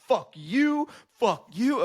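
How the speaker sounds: very high-pitched mock-furious cursing; a singer. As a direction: imitate pent-up anger bursting out. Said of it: "He had some pent-up anger".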